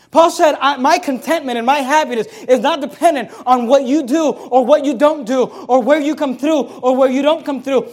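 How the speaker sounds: loud, high, driving sermon climax; fervent pulpit crescendo; full force preaching. Acted. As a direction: preach it hard, building and pounding each clause.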